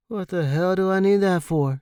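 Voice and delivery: loud, laughing dismissal; scoffing laugh. A narrator's reading. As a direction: scoff at the money. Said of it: "laughing as if the cash".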